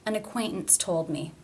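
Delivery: TOLD begun with a true T after a stopped ACQUAINTANCE; actual T. Shown as a demonstration. Teacher modelling the sentence, real T in TOLD. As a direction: stop the T in ACQUAINTANCE, release it in TOLD. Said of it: "the actual T sound".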